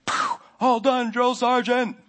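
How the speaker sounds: high, slow Forrest Gump impression. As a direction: drawl it out like Forrest. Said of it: "and he's like".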